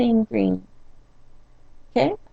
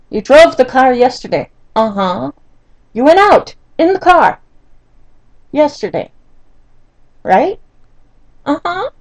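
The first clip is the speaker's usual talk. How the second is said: exasperated scolding; 3 semitones higher, 6 dB louder than usual. Retold or imitated. Retold quarrel with husband about gas.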